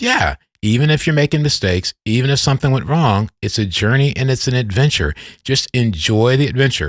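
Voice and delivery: a high, lightly voiced older woman, upbeat; lightly imitating a friend's encouraging voice; Gloria's voice. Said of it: "I can't do an imitation of Gloria's voice".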